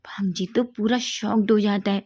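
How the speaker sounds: usual speaking voice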